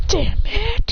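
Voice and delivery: high-pitched frustrated exclamation; exasperated curse. Acted. Acted character cursing in fight.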